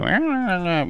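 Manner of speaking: wordless high-pitched "ah, ah, ah"; mock babbling. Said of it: "listening to me go".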